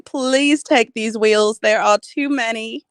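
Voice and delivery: put-on British accent. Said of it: "I just got British with that one".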